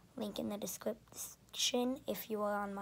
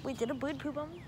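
surprised; 5 semitones higher, 3 dB quieter, faster than usual. Real, not acted. Alarmed at bird poop.

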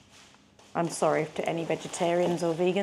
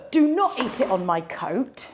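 sudden louder, higher telling-off; real scolding; 4 semitones higher, 5 dB louder than usual. Real, not acted. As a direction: firmly tell the dog off. Scolding the dog mid-sentence.

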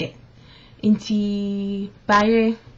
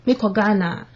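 normal talking voice

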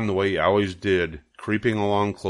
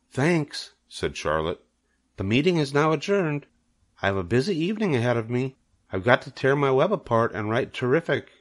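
lightly voiced spider; 5 semitones higher than usual. Charlotte ending the meeting.

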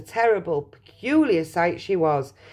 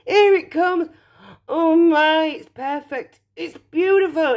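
put-on high-pitched rapturous girl; excited Violet; 10 semitones higher, 4 dB louder than usual. A narrator's reading. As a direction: gush with delight, voice lifted high. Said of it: "shouted Violet".

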